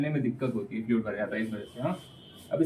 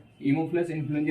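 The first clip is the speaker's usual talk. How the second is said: slow careful naming; 2 semitones higher, much slower than usual. Shown as a demonstration. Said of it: "teacher stresses the bacterium name".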